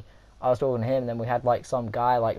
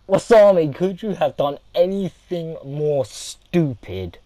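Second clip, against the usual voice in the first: loud scolding; 3 semitones higher, 4 dB louder than usual. Retold or imitated. Scolding friend.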